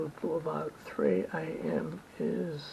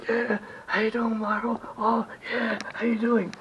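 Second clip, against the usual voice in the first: imitated excited welcome, a little higher; excited greeting; 4 semitones higher than usual. Body shop staff greeting the producer on camera, imitated excitement. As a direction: greet him like an old favourite, lightly hammed-up. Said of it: "they were all excited".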